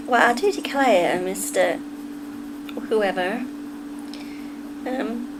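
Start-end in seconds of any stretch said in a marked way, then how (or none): 0.1-3.4 attempted Southern belle accent; Scarlett O'Hara. Streamer quoting a film heroine, shaky attempt at Southern accent. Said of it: "I have the Scarlett O'Hara in my head".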